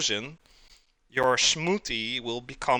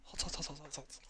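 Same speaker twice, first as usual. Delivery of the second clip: hot hot hot; 3 semitones higher, 19 dB quieter than usual. Real, not acted. Pie just out of oven.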